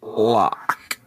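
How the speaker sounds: faint ghostly answer from beyond; a dead man's echoing whisper; haunting voice. Acted. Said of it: "A ghostly voice will".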